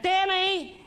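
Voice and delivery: put-on high-pitched call to a child; yelling out. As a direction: call out the name from indoors. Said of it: "And she yells out".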